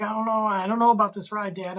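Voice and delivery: retold nervous whine, not screaming; a nervous boy appealing to his dad; kinda crying. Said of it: "kinda crying, but not, like, screaming".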